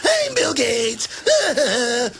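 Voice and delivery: mock call out. Mock-calling out to Gates.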